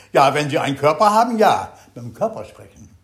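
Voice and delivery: loud, fast, barked answer; bellowing Zen master. Retold or imitated. Zen master bellows at disappointed Lassalle, loud and fast. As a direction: roar it at the student. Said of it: "Darauf verbrüllte er ihn an".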